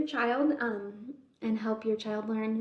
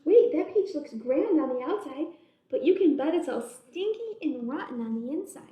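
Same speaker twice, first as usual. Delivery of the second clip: chatty bug voices. Acted. Bugs debate eating the peach.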